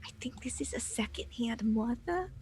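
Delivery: hushed, confiding near-whisper. Acted. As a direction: drop your voice and share it quietly. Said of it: "lower my voice".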